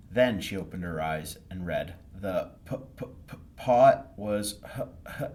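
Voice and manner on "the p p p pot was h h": halting, stuttering reader; slow nervous stammer. Acted. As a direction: fight through each word. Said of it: "the words swam around the page".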